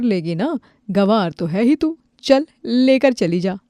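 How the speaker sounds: lightly voiced rude neighbor woman; sneering neighbor. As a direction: order her about with contempt. Neighbor insults her.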